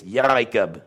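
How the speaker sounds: YARIKAB with a rolling sound back in the throat; rolling throaty ayin. Shown as a demonstration. Demonstrating the excited ayin, rolled in the throat. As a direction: roll the middle of yarikab from the throat. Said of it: "if said with a lot of excitement".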